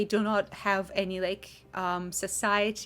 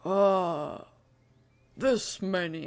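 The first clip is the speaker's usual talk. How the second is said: put-on a big slow brute speaking like a small child; slow simple giant; slower than usual. GM voicing a lost hill giant to Kova, slow and childlike.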